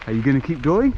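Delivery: lightly imitated Australian kid's question; a hint of an Australian boy asking; Aussie accent. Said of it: "in his Aussie accent".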